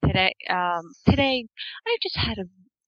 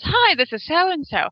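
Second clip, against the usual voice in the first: slower, higher mimic of her sing-song hello; girlfriend's greeting; 8 semitones higher, slower than usual. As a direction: stretch the greeting out the way her message does. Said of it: "she goes".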